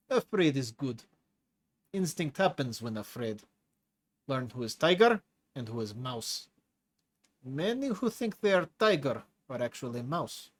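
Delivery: lightly voiced hulking prisoner with a foreign accent; a menacing brute enjoying scaring the new chief; Tigra's heavy accent. Tigra lectures Leo.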